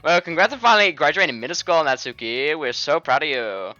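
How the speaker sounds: loud, mock-proud Indian accent; badly faked Indian accent. Friend mockingly congratulating Natsuki, in a loud fake Indian accent. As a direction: tease in a hammed-up Indian accent. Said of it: "fucking Indian man's voice instead".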